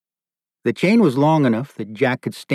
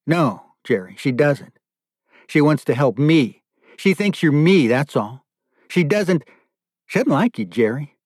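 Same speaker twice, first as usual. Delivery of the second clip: rising protest, higher as it goes; insistent denial; 4 semitones higher than usual. Acted. Chained father correcting his deluded captor, insistent. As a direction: contradict him point by point.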